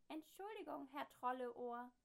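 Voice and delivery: high, loud, slowed-down machine apology. A narrator's reading. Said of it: "versucht die Sprechmaschine es nochmal".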